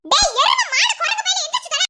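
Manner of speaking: scolding shout to get him out of bed; angry wake-up yell. Acted. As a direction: bark at a lazy husband. Wife yelling to wake husband.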